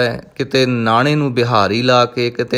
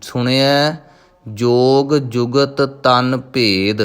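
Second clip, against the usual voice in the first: ਜੁਗਤ and ਤਨ kept apart by a small pause; small pause between words; slower than usual. Shown as a demonstration. Teacher showing students to pause between ਜੁਗਤ and ਤਨ. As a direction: pause slightly after ਜੁਗਤ before ਤਨ so both ਤ sounds are said. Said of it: "ਥੋੜ੍ਹਾ ਜਿਹਾ ਰੁਕ ਕੇ".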